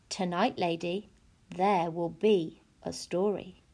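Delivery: low, slow, ominous nanny; a hint of a cold governess; stern nanny voice.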